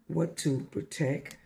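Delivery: deliberate, emphatic verse with long pauses; poem recitation. Real, not acted. Teaching listeners through a poem, emphatic recital. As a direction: let each phrase of the poem stand alone. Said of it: "poetic poem with you".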